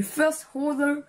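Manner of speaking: light English accent on the name. Shown as a demonstration. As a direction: say Snowtrooper the English way. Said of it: "avec l'accent anglais". (accent anglais léger)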